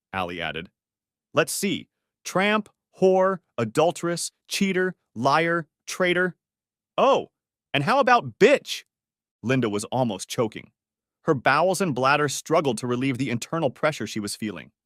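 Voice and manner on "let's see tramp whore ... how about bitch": high, drawn-out scornful insults; angry name-calling. A narrator's reading. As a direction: hurl each insult slowly, pitched high. Daughter hurls insults at mother.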